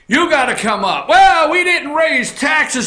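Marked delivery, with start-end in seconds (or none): 1.1-2.9 mock politician. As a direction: sneer it like a proud official. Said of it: "Don't you love that one?".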